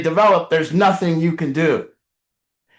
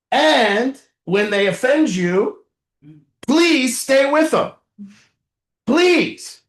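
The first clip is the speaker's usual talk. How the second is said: pleading parent; 5 semitones higher, slower than usual. Retold or imitated. Parent begging counselor, retold.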